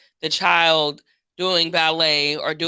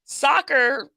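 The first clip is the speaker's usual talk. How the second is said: put-on higher pitched kid voice; pleading child; 7 semitones higher than usual. Kid pleads with parent over quitting, higher and whiny. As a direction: plead like a ten-year-old. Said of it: "And it's like".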